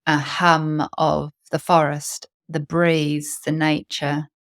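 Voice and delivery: calm guided meditation with long pauses. Real, not acted. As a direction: lead listeners into their breath, unhurried.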